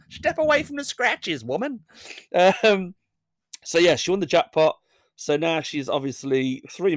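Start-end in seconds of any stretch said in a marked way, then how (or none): 0.1-1.8 mock stern command. Scolding the winner.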